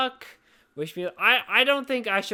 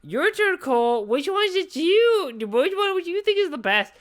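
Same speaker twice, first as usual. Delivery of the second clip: high, loud, insistent question; loud prompting; 10 semitones higher, 6 dB louder than usual. Real, not acted. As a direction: put the co-host on the spot, loudly. Throws the question to co-host.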